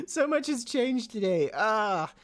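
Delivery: high, giggly cheer; bubbling over with a laugh; giddy laughing delight. Real, not acted. Giddy laugh at the lovely day.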